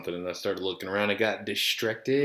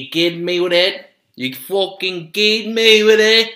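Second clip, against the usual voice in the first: loud mock outrage; 7 semitones higher, 8 dB louder than usual. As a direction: act loudly outraged, stretching the words. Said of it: "Sorry if I was too loud".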